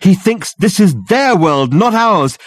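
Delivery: high, loud, urgent realization; urgent revelation. A narrator's reading. Dirk revealing the ghost's purpose to Reg and Richard, urgently. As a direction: hammer home the horror as it dawns.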